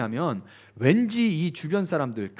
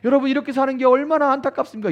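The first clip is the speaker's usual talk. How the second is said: a hint of a stirring preacher, higher; lightly voiced pleading revival preacher; revival preacher's plea; 6 semitones higher, faster than usual. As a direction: mildly imitate a speaker egging on tears. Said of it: "이러면서 막 이렇게 북돋는 거예요".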